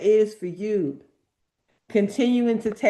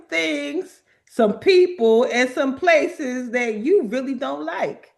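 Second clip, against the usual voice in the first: building excitement; 3 semitones higher, 4 dB louder than usual. Real, not acted. Building emphatic pitch.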